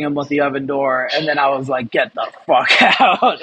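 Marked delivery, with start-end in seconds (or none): 1.9-3.4 slow, laughing through a retold order; amused, half-hearted get out; laughing mock order. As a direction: laugh as you throw him out. Retelling kicking coworker out.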